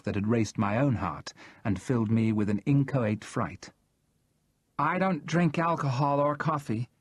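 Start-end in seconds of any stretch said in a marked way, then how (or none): 4.8-6.9 anxious voice. A narrator's reading. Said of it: "in an anxious voice".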